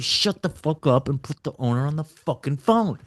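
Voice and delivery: play-acted brash demand; retold trash talk. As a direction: imitate a pushy, foul-mouthed cold caller. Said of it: "like, cussing at people, trash talking people".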